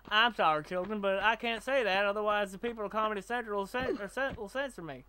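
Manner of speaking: put-on teacher with a Southern accent; Mister Garrison. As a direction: address the class in a light Southern accent. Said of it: "it's Mister Garrison that has the Southern accent".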